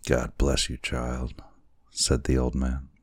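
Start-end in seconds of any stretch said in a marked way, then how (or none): 0.1-1.4 tender blessing. Acted. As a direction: bless her gently. Old man blesses her.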